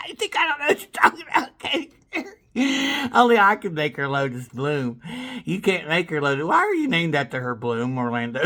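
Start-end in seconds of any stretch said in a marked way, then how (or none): 0.1-3.1 much higher sneering taunt; mocking taunt. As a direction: tease him in a high voice. Taunting Orlando Bloom.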